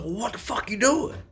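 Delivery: high-pitched mock voice of an aggressive boss; mocking boss impression. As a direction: imitate the boss in a squeaky falsetto. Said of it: "Like that".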